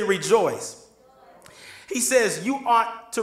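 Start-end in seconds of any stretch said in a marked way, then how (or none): 0.0-0.9 firmer, more emphatic call to respond; like you mean it. Shown as a demonstration. Preacher prompting everybody to say rejoice, like they mean it. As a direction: urge the crowd with conviction. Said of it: "I'm gonna say it like you mean it".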